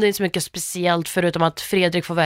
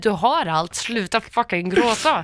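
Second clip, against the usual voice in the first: mock clueless babysitter; 3 semitones higher than usual. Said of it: "som ska ta hand om ett barn".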